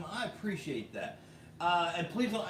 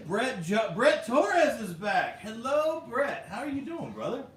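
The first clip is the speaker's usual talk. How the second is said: loud, high announcer-like welcome; excited greeting; 5 semitones higher, 6 dB louder, slower than usual. Real, not acted. Streamer welcoming a returning viewer, loud and excited. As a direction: hail him loudly, drawing out the name.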